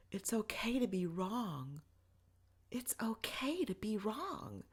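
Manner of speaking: whispered, broken repeat; hushed whisper of a man in tears; tearful whisper. Retold or imitated. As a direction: breathe it out barely audible, overwhelmed. Husband repeating it, crying.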